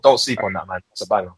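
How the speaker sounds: normal talking voice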